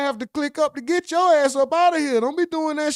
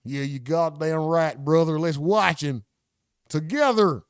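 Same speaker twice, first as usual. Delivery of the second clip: put-on backwoods white boy; 9 semitones lower than usual. Streamer voicing the white guy next to him, lower country voice. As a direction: play the redneck buddy beside him. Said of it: "with a backwoods white boy".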